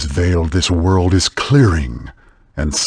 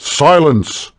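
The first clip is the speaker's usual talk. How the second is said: stern command; 9 semitones higher than usual. Acted. Elder silencing the hero, a stern command. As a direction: cut him off hard.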